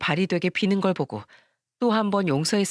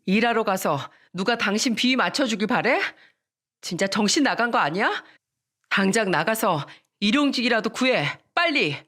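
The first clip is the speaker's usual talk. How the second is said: angry wife; 3 semitones higher than usual. Retold or imitated. Wife orders husband out.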